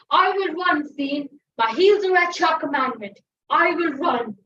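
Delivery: loud, firm decision; resolute declaration. Acted. The servant tells the fiend he will run, loud and firm. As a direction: announce it boldly to the fiend.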